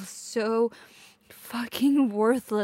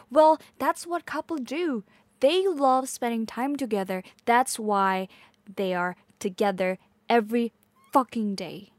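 heated arguing; 3 dB louder than usual. Acted. Girlfriend arguing with partner about time together, heated. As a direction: argue the point heatedly.

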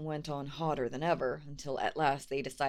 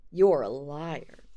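angry troll; 8 dB louder, slower than usual. Acted. Trolls quarrel.

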